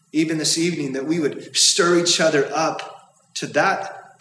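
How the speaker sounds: earnest prayer with long pauses. Real, not acted. Leads the congregation in prayer.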